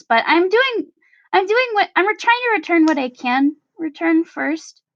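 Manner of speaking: hesitant, stumbling sheepish confession. Acted. Tally returns a bottle to Sammy, lightly sheepish. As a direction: hedge and restart, a touch sheepish. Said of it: "she kind of sheepishly is holding it".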